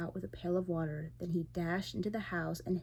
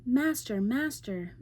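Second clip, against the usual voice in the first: loud, higher cry for help; harp calling loudly; 5 semitones higher, 5 dB louder, slower than usual. A narrator's reading. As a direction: call out to wake the master. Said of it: "But the harp called again".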